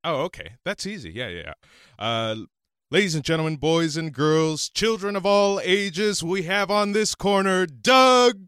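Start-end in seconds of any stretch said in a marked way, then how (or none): 2.9-8.4 wrestling announcer. Shown as a demonstration. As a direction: stretch every word to the crowd. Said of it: "Give us, like, an example".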